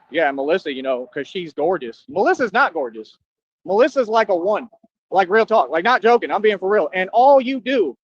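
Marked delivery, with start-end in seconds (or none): 0.1-2.0 lower, dismissive mimic of her line; mocking the coworker. Mocking a coworker's praise of Melissa, lower and dismissive. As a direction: say it like a smug coworker you're mocking. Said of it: "she had to throw in there".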